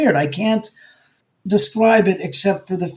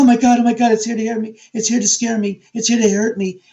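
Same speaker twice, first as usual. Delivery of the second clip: mock panic; 5 semitones higher, faster than usual. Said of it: "the person reacting ... creates this drama".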